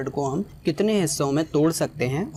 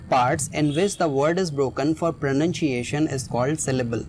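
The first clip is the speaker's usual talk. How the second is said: slow reading; much slower than usual. Shown as a demonstration. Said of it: "दूसरी line पर आते हैं".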